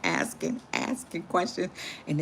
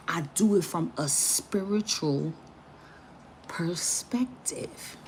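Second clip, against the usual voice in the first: whisper; 4 dB quieter, slower than usual. Shown as a demonstration. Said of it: "whispered word again".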